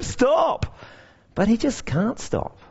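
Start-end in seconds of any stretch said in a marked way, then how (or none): 0.0-0.8 mild mock shout. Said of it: "they start shouting at him".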